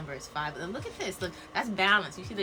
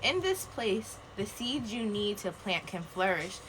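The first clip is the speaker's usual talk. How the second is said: solemn card reading; slower than usual. Acted. Reads card slowly, solemn.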